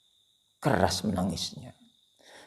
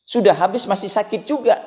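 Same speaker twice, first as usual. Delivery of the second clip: 1 emphatic preaching; 12 semitones higher, 8 dB louder than usual. Real, not acted.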